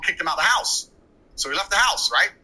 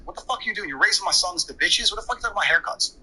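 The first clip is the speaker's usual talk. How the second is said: raised, furious retold rant; higher mock outburst of rage; dad losing his temper; 5 semitones higher than usual. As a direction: imitate an angry father yelling at mom. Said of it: "And my dad lost his temper".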